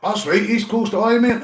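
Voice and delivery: loud, high call across the room. Real, not acted. Vlogger calling out to East Coast, loud and high. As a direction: shout over to the neighbour.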